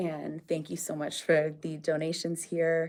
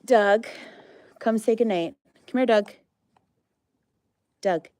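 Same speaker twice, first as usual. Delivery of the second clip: higher, louder sing-song call across the pen; calling an animal; 5 semitones higher, 8 dB louder than usual. Real, not acted. Owner calling her alpaca over to say goodnight, loud sing-song call. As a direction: call him over, coaxing and bright.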